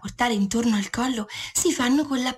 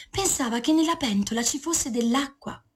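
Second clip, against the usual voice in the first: plain reading voice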